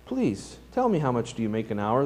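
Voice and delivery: a hint of a small boy pleading. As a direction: beg the father gently. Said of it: "pleaded the little boy".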